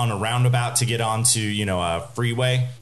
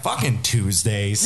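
slow, lower, unbothered delivery; really calm; 4 semitones lower, slower than usual. Retold or imitated. Driver after plowing through carjackers, really calm. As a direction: imitate a driver taking danger completely in stride. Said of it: "He sounds really calm".

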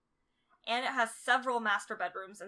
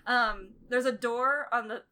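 interrupted mid-sentence by tickling; squirming while talking; being tickled; 5 dB louder, slower than usual. Real, not acted. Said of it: "don't tickle me".

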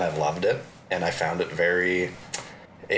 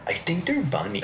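whisper; 10 semitones higher than usual. Acted. Joking whisper about the movie.

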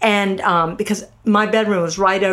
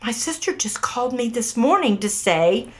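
hushed retelling of shock, pitched up; stunned, spooked; 3 semitones higher, 5 dB quieter than usual. Retold or imitated. Mom learns of the ghost coincidence, stunned and hushed. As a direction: softly act out someone gone white with shock. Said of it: "she turned white and said".

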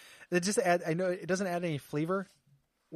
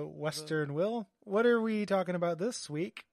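cowboy voice; slower than usual. Acted. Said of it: "Cowboy Voice Week".

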